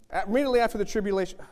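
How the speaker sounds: rattled off quickly, mock preacher; fast preacher imitation. Retelling the video preacher he rewound, quick and mocking. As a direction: race through it like the video preacher. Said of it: "Let me read it again".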